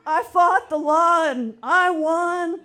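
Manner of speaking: gleeful, laughing through the words; laughing triumph. Real, not acted. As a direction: crow it out with a laugh. Triumphant quote of the song line.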